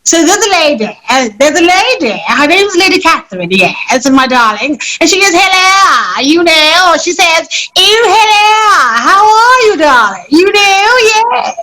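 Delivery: high, drawn-out posh British lady; swooping high-pitched proper British English. Shown as a demonstration. Actor showing off Lady Catherine to her host, proper British. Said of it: "Do you want the proper British one".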